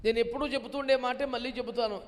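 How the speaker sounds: normal talking voice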